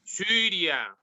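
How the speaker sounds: Syria with y as rounded French u; corrective pronunciation model. Shown as a demonstration. Tutor corrects Julia's difficult vowel, careful model of Syria. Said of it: "dificultad, eh, de Julia para pronunciar la letra U".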